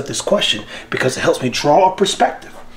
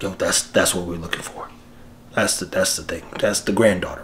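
hushed awe; 7 semitones lower, 7 dB quieter than usual. Real, not acted. Hushed awe over granddaughter.

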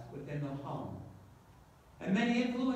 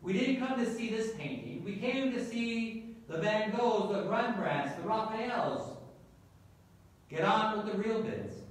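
annoyed heckler, voice pitched up; restrained, higher-pitched crowd complaint; mild angry shout; 3 semitones higher than usual. Acted. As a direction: protest with a touch of anger. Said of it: "Another voice shouted angrily".

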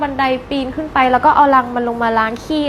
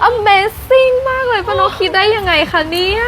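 slow, higher mock amazement; sarcastic praise; 7 semitones higher, much slower than usual. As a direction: drag it out, fake impressed. (ชมแบบประชด ลากเสียงช้า)

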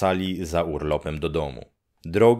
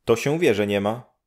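brisk, higher neighbour voice; a matter-of-fact old neighbour; higher village woman; 4 semitones higher, faster than usual. Acted. Neighbour woman telling Grześ nobody's home, brisk and higher.

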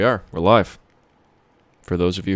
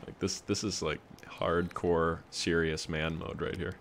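mock macho; 6 dB quieter than usual. Mock-macho talk about manly game.

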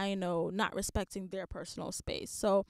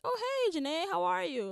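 mock creepy stranger; 9 semitones higher than usual. Imitating a creepy stranger greeting her.

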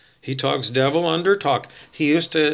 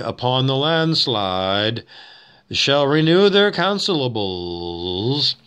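slow solemn verse reading; preacher reading; slower than usual. Shown as a demonstration. A hint of Reverend Lovejoy reading slowly. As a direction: intone it like a reverend.

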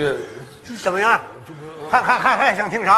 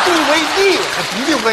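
laughing fast; 6 semitones higher, 5 dB louder, faster than usual. Real, not acted. Mocking mangled word.

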